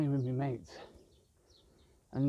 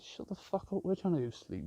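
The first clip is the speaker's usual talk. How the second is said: higher mock whisper, then back to speaking; voicing the birds; 4 semitones higher than usual. Birds telling sleepers to shut up, mock whisper. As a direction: hiss it like a cranky neighbour. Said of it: "all you can hear is".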